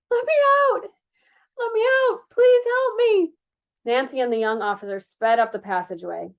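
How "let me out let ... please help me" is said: desperate plea. Acted. Prisoner calling for help.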